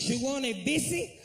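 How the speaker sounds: put-on a cashier struggling with the order in a Spanish accent; hammed-up Spanish-accented cashier; mock Spanish accent. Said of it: "He said".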